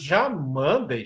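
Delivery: "Já" leaned on, "mandei" slowed right down; a musician's objection, stress on Já. Retold or imitated. A musician phones a singer to object, stressing "Já". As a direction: draw out "Já mandei", weight on the "Já". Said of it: "aí o Jobim liga pra ele e diz".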